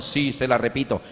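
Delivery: a hint of a kindly teacher; teacher obliging.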